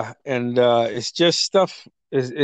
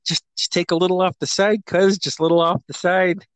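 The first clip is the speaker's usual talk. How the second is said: higher voice, lightly imitating a friend's plea; retold haircut plea; 5 semitones higher than usual. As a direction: plead lightly with the barber, pitched up. Retelling friend's plea to barber.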